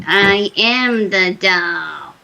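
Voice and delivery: put-on slow, eerie kid-and-grandma voice; wicked doll voice. Retelling the haunting to the panel, doll's slow wicked voice. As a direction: stretch each word like a wicked doll. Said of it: "it was really wicked".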